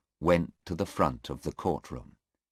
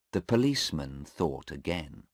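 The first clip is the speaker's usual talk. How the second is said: ordinary talk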